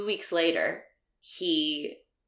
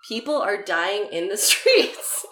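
laughing through words; 3 semitones higher, 4 dB louder, slower than usual. Real, not acted. Laughing while saying it.

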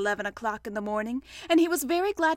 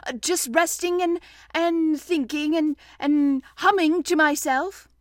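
careless; 4 semitones higher, 6 dB louder than usual. A narrator's reading. Pooh pretending to Rabbit he's resting, careless. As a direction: stall casually between excuses. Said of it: "said Pooh carelessly".

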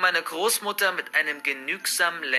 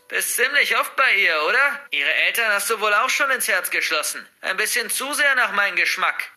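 higher, louder, sickly sweet taunting; disgusting purr; 5 semitones higher, 4 dB louder than usual. Acted. Grandmother baiting the girl about Sarah, nasty sweet purr. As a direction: coo it nastily, like bait. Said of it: "ein ekelhaftes Säuseln in der Stimme".

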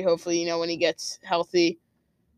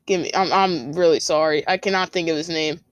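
flustered, trailing off while searching memory; blanking on name; 4 semitones lower than usual. Real, not acted. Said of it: "I'm completely blanking right here".

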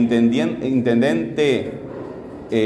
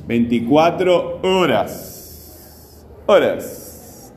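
"Veinticuatro horas" very slow, strong syllables held; stress demonstration; much slower than usual. Shown as a demonstration. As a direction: stretch the O of "horas". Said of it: "horas, ¿cuál es?".

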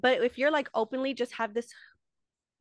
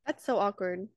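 whisper; 3 semitones lower than usual. Real, not acted. Whispered aside.

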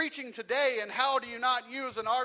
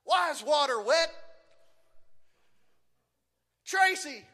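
put-on pestering kid shout; 3 semitones higher than usual. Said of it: "Jeffrey in the distance go".

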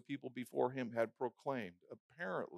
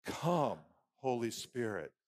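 full-voiced congregational call, "Come, Holy Spirit"; said out loud; 3 semitones lower, slower than usual. Shown as a demonstration. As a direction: declare it firmly for all to repeat. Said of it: "Say it with me".

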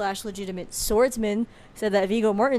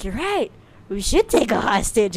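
mock sudden agreement; 2 semitones higher, 5 dB louder than usual. Vanitas agreeing to take a hostage, mock eager. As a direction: imitate someone seizing on a bad idea. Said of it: "and he's like".

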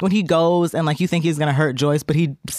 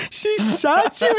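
much higher, very slow rising question; laughing mock disbelief; much slower than usual. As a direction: stretch it out high through laughter. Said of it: "they're like".

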